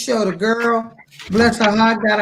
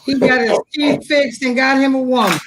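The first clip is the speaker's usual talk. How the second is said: excited; 2 semitones higher than usual. Real, not acted. Excited gossip about the boyfriend.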